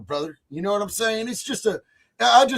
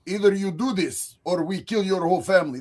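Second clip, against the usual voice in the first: put-on botched Israeli accent that slides toward Russian; a foreign agent's threat in a clumsy Israeli accent; bad Israeli accent; 4 semitones lower, 3 dB quieter than usual. Foreign agent threatening a woman's family, in a bad Israeli accent. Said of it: "I'm not good with an Israeli accent".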